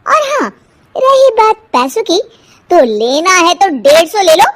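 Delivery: mild mock argument, arrogant; haggling housewife. Haggling quarrel with vendor.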